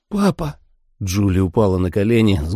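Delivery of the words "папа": tag. A narrator's reading. Daughter cries out to dying father.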